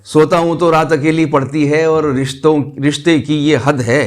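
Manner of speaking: measured mushaira verse delivery with pauses; ghazal recitation. Acted. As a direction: recite the couplet to an audience, phrase by phrase. (शायराना अंदाज़ में ग़ज़ल पढ़ना)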